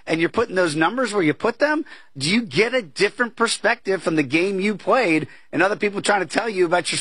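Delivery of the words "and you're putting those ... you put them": mock-disbelieving, pitched high on the first line; imitating an amazed fighter asking what they're thinking; high, disbelieving quote in the voice of a fighter; incredulous. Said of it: "a look in his face like".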